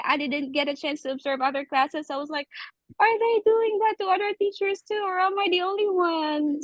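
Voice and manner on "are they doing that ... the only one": higher, mildly dismayed wondering; disappointed questioning. Retold or imitated. New teacher wondering about other classrooms, mildly disappointed. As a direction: retell your own disappointed doubt. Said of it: "So I was really disappointed".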